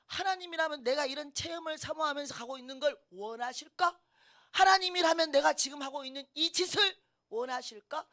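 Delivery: ordinary delivery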